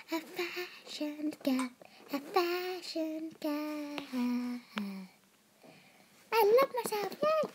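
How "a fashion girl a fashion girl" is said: softer, slower repeat. Shown as a demonstration. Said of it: "I'm a fashion girl".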